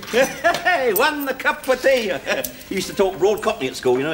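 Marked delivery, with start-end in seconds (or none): 0.1-2.1 slow, high mock Italian voice, drawn out; mock Italian accent. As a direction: parody his Italian lilt, stretching "one cup of tea". Fletcher mimics Dante's order.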